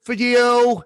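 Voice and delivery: high, held-out final words; demonstrated big drawn-out finish; padded greeting ending. Shown as a demonstration. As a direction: hold the last word to fill time. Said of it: "Look at the watch".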